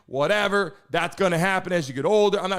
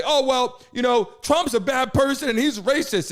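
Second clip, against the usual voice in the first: mocking dismissive tone; 4 semitones higher than usual. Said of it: "They just say".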